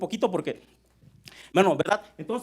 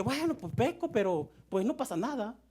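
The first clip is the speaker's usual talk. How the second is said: careless sinner; 5 semitones higher than usual. Acted. Voices a careless sinner's excuse.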